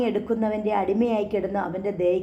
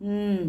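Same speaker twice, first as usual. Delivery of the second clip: pressed hum; 3 dB quieter than usual. Acted. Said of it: "അമർത്തിയുള്ള മൂളൽ".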